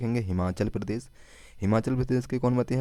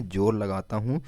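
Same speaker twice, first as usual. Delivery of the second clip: slow mnemonic. Shown as a demonstration. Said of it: "Mizoram को क्या बोला है हमने?".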